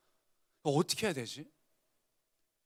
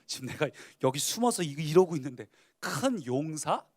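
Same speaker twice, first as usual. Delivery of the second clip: scoffing disbelief; 2 semitones lower, 4 dB louder than usual. Acted. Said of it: "비식비식 웃음이 나는 거예요".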